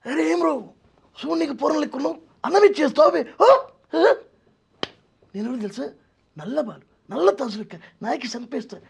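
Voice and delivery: very high-pitched comedian impression; Venu Madhav. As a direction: squeak out comic threats like the film comedian. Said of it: "ఇలా ఆయన, ఆయన ముందు". (వేణుమాధవ్ గొంతు అనుకరణ, హెచ్చు స్థాయిలో)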